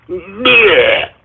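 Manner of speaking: drawn-out noise of disgust; disgusted bleh. Real, not acted. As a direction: let out a fed-up bleh. Disgusted noise after protesting the talk.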